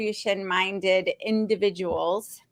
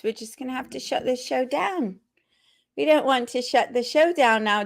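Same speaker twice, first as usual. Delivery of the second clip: put-on playful Australian accent that keeps slipping; wobbly mock-Australian host voice. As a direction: attempt an Australian accent, drifting towards London. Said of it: "is that laughter about this accent?".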